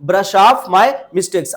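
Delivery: each word drawn out slowly for learners; slow dictation pace; slow model phrase. Shown as a demonstration. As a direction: repeat it slowly so students can copy. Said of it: "क्या बोला आपने?".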